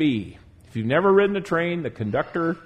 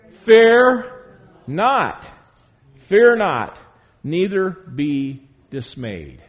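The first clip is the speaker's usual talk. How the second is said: proclaiming loudly; 3 semitones higher, 7 dB louder, much slower than usual. Acted. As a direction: ring out the command, then settle it slowly. Preacher proclaims verse to congregation.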